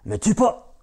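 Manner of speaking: voix lointaine, plus aiguë; eerie voice. Acted. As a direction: une voix étrange venue de nulle part, aiguë. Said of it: "Encore cette voix". (la vache supplie Jack, voix lointaine et aiguë)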